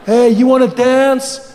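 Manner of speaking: loud, drawn-out creepy come-on; creepy guy. Acted. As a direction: play a creep hitting on someone at a bar. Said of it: "That creepy guy comes up".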